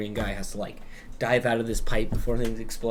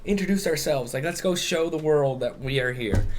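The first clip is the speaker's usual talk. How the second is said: much higher, cocky boasting voice that peaks on cool; puffed-up bragging; 4 semitones higher than usual. Retold or imitated. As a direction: hype yourself up like a smug new hero. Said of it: "kind of puffing themselves up".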